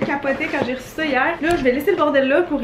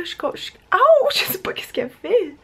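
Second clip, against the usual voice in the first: souffle sans voix, tout bas; chuchoté; 8 semitones higher than usual. Real, not acted. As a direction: chuchote pour ne pas déranger. Chuchote près du bébé. (chuchotement réel)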